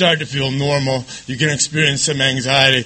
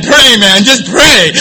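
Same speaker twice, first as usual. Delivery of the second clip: higher, louder panicked urging; freaking out; 10 semitones higher, 11 dB louder, slower than usual. Retold or imitated. Friend on the phone panics as Jeremy bags his head, loud. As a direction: beg him to pray, alarmed. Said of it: "my friend was freaking out".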